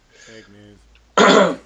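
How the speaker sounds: shouted sarcastic jab; loud sarcastic. Acted. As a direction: yell it out sarcastically.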